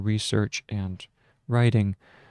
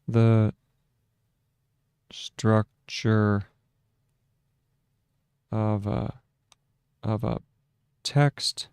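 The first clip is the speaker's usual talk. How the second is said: dictating; slower than usual. Shown as a demonstration.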